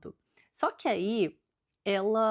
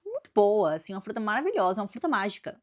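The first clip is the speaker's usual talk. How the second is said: higher, lightly sly snake selling fruit; tempting serpent; 3 semitones higher, 3 dB louder, faster than usual. Retold or imitated. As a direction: lure her in, mock sweet. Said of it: "ele fala assim".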